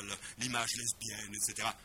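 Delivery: ordinary delivery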